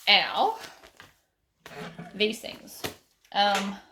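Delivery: speaking through hiccups; halting words with hiccups. Real, not acted. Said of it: "I've got the hiccups".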